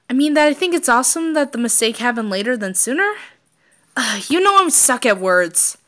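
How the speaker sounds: loud flustered confession; flustered outburst. Acted. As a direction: blurt it out, embarrassed and frustrated. Flustered Keith fumbling for words.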